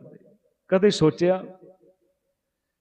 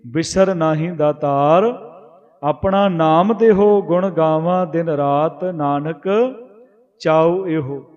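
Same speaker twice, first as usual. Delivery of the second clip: slow scripture recitation; 2 semitones lower, slower than usual. Acted. Preacher reciting gurbani verse to the congregation, slow and reverent. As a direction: chant the verse slowly, each phrase drawn out.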